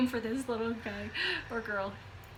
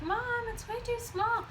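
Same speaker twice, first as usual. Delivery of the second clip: imitating her daughter; 11 semitones higher, 4 dB quieter than usual. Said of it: "she's like".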